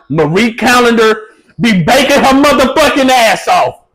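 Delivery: high, loud hype shout; hyped shout. Pretend. Joking hype about pie brand.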